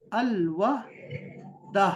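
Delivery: الوحدہ drawn out sound by sound; very slow spelling-out. Shown as a demonstration. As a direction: stretch الوحدہ slowly while writing it. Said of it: "آپ یہ ایسے لکھیں گے".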